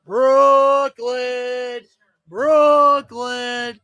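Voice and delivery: shouting the team name, full volume; excited yell. Real, not acted. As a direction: yell it like the pick just dropped. Fan yelling at draft pick.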